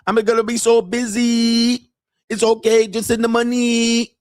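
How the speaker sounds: put-on high, broken-English Thai girlfriend voice; mock Thai accent. Mocking Thai girlfriend asking her man for money in a high accented voice. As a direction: imitate a Thai bar girl pleading for money. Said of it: "she's gonna be like".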